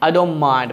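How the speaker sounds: "don't" running into "mind" as "dom"; silent T. Shown as a demonstration. Teacher demonstrating the dropped sound, "don't mind" as "dom mind". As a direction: drop the t, merge "don't" with "mind". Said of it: "এরকম".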